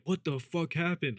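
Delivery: high, drawn-out mock shock; imitated disbelief. Janitor reacting to the bathroom smell, shocked. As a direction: play up the janitor's baffled reaction.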